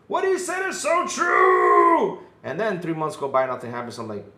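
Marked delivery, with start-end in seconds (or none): 0.1-2.2 mock frantic gushing. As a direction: gush like a frantic fan. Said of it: "go nuts and say".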